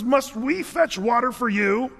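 angry yell. Retold or imitated. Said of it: "he yells at them".

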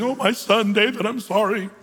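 lightly acted tearful apology; a touch of a wail, easing off; mock sobbing. Saul seeming to repent to David, mock sobbing. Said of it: "weeping and sobbing and saying".

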